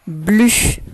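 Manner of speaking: syllable dictated loud and clear; dictation. Shown as a demonstration. Teacher dictating the first syllable to pupils, dictation voice. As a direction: say BLU as one isolated, carefully projected syllable. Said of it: "Je vais te dicter les syllabes".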